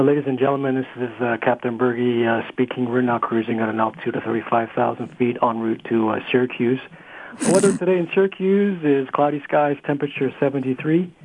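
captain's cabin PA voice; airline pilot announcement. Shown as a demonstration. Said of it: "Go ahead, do your pilot voice".

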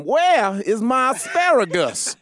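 a mock dramatic scene line; actor's line read. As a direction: deliver it like an improv scene. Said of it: "that line".

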